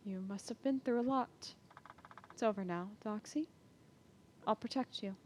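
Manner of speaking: soft, hushed comforting voice; gentle reassurance. Acted. Lady Sabina comforting the captive girl, soft reassuring voice. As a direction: soothe the frightened girl softly.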